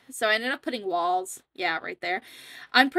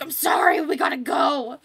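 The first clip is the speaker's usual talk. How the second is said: loud hurried call; 4 semitones higher, 4 dB louder than usual. Retold or imitated. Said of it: "I'm like".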